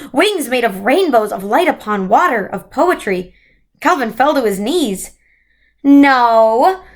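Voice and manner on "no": a hint of a grand new voice, louder; lightly voiced transformed creature; new commanding voice. A narrator's reading. Transformed creature answers Calvin, grand new voice. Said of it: "her voice was not Missus Whatsit's voice".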